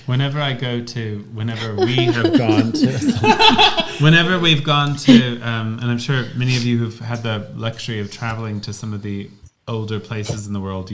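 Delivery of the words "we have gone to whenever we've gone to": high, slow laugh through the words; words dissolving into a laugh. Real, not acted. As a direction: laugh while restarting the sentence. Laughing restart.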